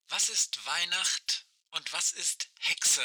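like a far-off voice over a walkie-talkie; old rotary phone. Acted. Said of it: "Aisches Stimme knarzt durch das Funkgerät".

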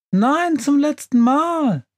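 high, slow, exasperated witch voice; snarling. A narrator's reading. Witch refusing her stove's plea, snarling. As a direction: refuse crossly, stretching each word high. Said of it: "knurrt die Hexe".

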